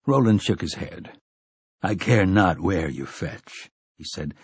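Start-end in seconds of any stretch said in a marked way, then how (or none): 1.8-3.7 low stern gunslinger. Acted. Roland answers the creature coldly.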